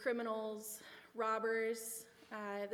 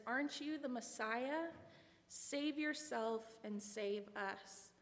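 mocking; slower than usual. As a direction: taunt him lightly, then drag out the plea slowly. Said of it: "The first criminal mocks Christ and says".

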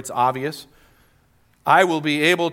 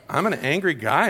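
incredulous retold question, swooping pitch; mock-stunned questioning; acting out disbelief. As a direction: replay being taken aback, voice swinging up. Stunned at family's verdict, retelling.

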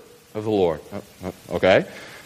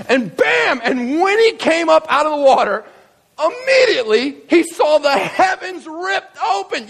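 high, thrilled proclamation; climactic preaching; 12 semitones higher than usual. Acted. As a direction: announce the miracle, stretching the key words. Preaches the climax at full force.

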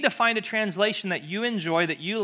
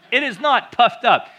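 mock British accent; 5 semitones higher, 7 dB louder than usual. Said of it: "God does not speak in a British accent".

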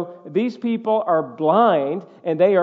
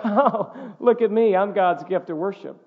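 mock self-important boast. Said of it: "to sing out and be like".

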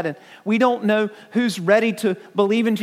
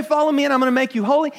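rattled-off quote; 3 semitones higher, much faster than usual. Retold or imitated. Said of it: "But Jesus didn't say".

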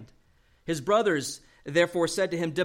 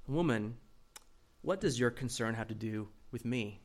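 softer, calm "Woman," with no edge; gentle, polite address; 4 semitones lower, 6 dB quieter than usual. Shown as a demonstration. Preacher shows the polite reading to the congregation. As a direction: say it kindly, not rude. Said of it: "Jesus is not being rude".

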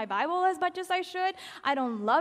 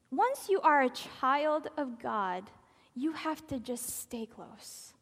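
tender whisper; 3 semitones lower, 3 dB quieter, slower than usual. Real, not acted.

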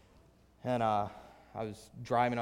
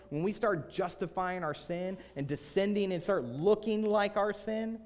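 higher-pitched, insistent sermon delivery; emphatic preaching; 6 semitones higher than usual. Real, not acted. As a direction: drive each phrase home from the pulpit. Preaches with rising force.

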